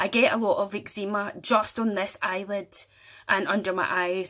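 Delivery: ordinary talk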